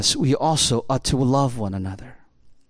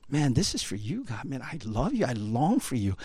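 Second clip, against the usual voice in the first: soft prayer; 6 dB quieter than usual. Acted. Intimate prayer to God.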